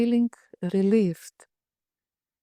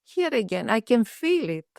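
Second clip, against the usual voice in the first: excited. Retold or imitated. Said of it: "she said".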